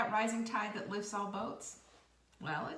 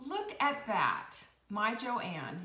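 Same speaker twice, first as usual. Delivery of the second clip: delighted; 4 dB louder, much slower than usual. Real, not acted. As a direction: savour the discovery out loud. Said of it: "reacting to comment".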